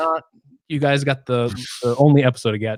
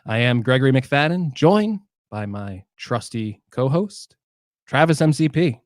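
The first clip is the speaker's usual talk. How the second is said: podcast host intro; slower than usual. Acted. Host welcoming listeners to Gadgetcast, announcer style. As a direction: open the show like a proud host.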